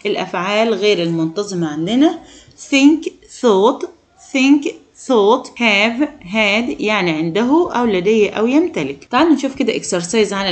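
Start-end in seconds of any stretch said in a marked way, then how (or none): 2.7-6.8 raised emphatic model. Shown as a demonstration. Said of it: "teacher stresses irregular verb forms".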